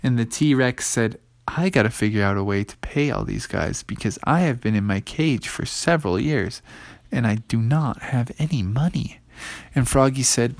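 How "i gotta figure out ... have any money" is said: low, soft dinosaur voice; softer, lower, troubled admission; worried T-Rex. Acted. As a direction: confess it low and subdued. T-Rex worries about paying.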